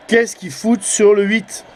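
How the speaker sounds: what on earth are they doing there; baffled outburst. Real, not acted. Radio amateur baffled by stations on channel eight, exasperated disbelief. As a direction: pitch jumps up in disbelief.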